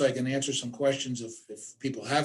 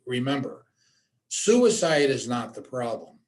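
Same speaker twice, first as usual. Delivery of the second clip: slow and deliberate, every word spaced; measured dictation pace; slowly. Shown as a demonstration. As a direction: say it slowly so they can jot it down. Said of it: "I'll say it again slowly".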